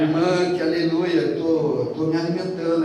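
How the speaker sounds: loud, thrilled cry of joy; joyful loud exclamation. Retold or imitated. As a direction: exclaim it like a delighted pastor. Pastor answering sister joyfully. (exclamação alegre e alta)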